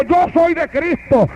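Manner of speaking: high, slow shout leading the congregation; preacher's model shout; shouted declaration. Shown as a demonstration. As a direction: call it out slowly for the church to repeat.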